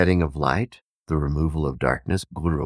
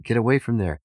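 panicked shouting; 9 semitones higher, 3 dB louder than usual. Retold or imitated. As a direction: get away called out much higher and louder. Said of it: "they start shouting".

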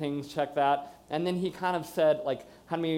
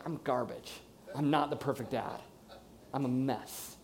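understated, subdued self-reproach; hopeless; 2 semitones lower, 5 dB quieter than usual. Retold or imitated. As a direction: quietly retell your own despair. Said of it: "I felt hopeless".

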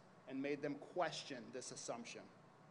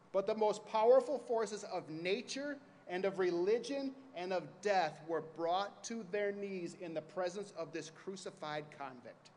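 passionate closing argument. Acted. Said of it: "But ladies and gentlemen of the jury".

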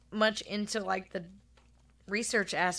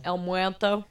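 Spanish accent; 5 dB louder than usual. Shown as a demonstration. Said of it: "Yes, say that again".

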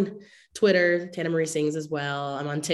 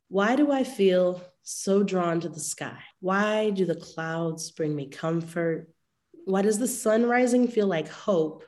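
poem recitation. Acted. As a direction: let each line land with a pause. Reads her poem Skies.

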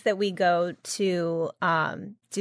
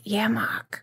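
ordinary talk, nothing marked

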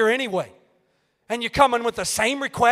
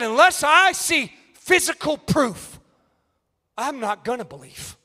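doubting Thomas; 3 semitones higher, slower than usual. Acted. Thomas refusing the disciples, mock stubborn shout.

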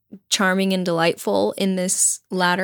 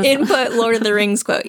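toy robot voice; 2 semitones higher than usual. Pretend. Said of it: "Jackie, input, output".

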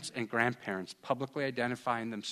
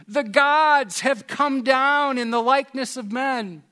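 much higher and louder proclamation; crowd shouting; 12 semitones higher, 9 dB louder than usual. Retold or imitated. People of Lystra shouting that gods came down, loud and high. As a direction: cry it out like an awed crowd. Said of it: "the people shouted".

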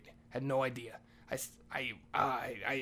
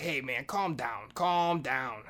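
drawn-out "calm down", the repeat louder; urging calm; 4 dB louder, much slower than usual. Retold or imitated. Maria to the narrator raging over checkers, drawn-out urging. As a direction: stretch out "calm" in both pleas.

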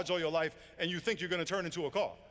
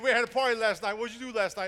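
put-on loud, higher, excited teenage boast; bragging teen; 4 semitones higher, 8 dB louder than usual. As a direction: crow about the party loudly. Kid Tony bragging to old man.

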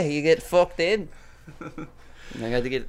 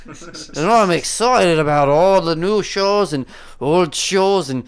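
eager, rushed promo read; pushy overexcited plug; over-anxious; 3 semitones higher than usual. Real, not acted. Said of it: "I sounded really over anxious there".

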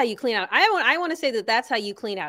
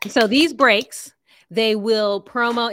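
whisper; 5 dB louder, much slower than usual. Real, not acted. Whispered slow aside.

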